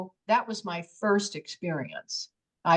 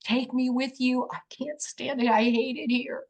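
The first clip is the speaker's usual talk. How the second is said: retold desperate plea; 4 semitones higher than usual. Woman begs the departing craft to take her, retold desperate pleading. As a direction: plead urgently in a run, understated. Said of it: "now all of a sudden I'm screaming".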